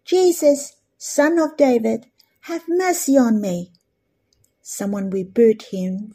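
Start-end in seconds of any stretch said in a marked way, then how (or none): 0.0-3.7 a lightly raised plea, higher on Jesus; crying out loudly. Retold or imitated. Preacher voicing the blind man calling to Jesus, mild raised plea. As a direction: call out for mercy, a mild mock cry. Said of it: "this blind man cried out loudly".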